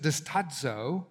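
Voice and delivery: slowly sounded Greek word distadzo. Shown as a demonstration. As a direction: spell out distadzo slowly, syllable by syllable. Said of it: "notice the word there is dist".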